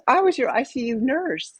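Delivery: high, imitated emotional nurse; tearing up. Nurse revealing herself to former patient, imitated high tearful voice. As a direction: mimic someone close to a meltdown, pitched well up. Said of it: "she starts to tear up".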